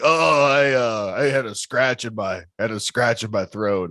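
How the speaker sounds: hammed-up hesitant excuse; retold sick driver's excuse. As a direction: imitate the driver stammering out an excuse. Imitating coughing driver's excuse.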